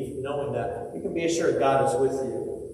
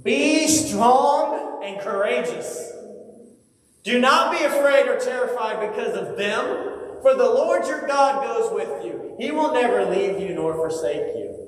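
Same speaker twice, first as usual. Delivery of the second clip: commanding encouragement; 7 semitones higher than usual. Acted. God speaking to Moses, high ringing command. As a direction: call it out like a herald. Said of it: "And he says".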